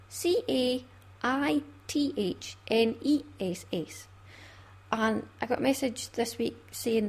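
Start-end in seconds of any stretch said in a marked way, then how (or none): 0.1-4.1 slow, letter by letter, falling on the last; spelling out. Shown as a demonstration. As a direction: spell C A I T H N E S S deliberately. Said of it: "I will spell Caithness for you".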